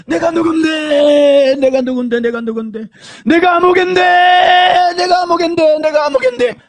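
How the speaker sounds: slow, wailing shout of torment; screaming in agony. Retold or imitated. Damned soul screaming in hell. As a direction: cry it out from the flames. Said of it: "하면서요".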